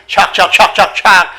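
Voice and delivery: made-up shark call in staccato bursts; imitated shark noise. Shown as a demonstration. Teacher joking about what a shark says, staccato mock shark noise. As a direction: repeat one syllable like a chomping shark. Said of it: "a shark say".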